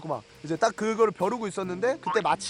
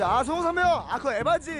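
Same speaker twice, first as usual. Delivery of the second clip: casual, cheeky; 4 semitones higher than usual. Retold or imitated. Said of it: "말이 점점 짧아지고".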